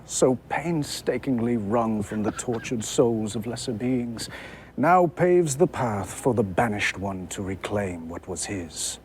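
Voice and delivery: lightly voiced villain lord, measured and grand; a hint of a gloating vampire lord, slowing at the end; Sire Denathrius. Panelist reads the villain's speech, mildly grand. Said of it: "I got Sire Denathrius".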